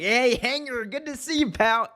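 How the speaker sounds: high, sugary fake-pal voice, imitating the Elite; a put-on chummy hello, pitched well up; mock friendly greeting. The Elite greeting Hangman backstage, mock chummy and high. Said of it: "The Elite come up to him like".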